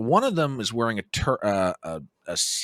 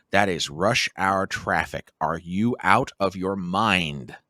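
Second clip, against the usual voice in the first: exasperated; 4 semitones lower, slower than usual. Retold or imitated. Arguing with sister over timing.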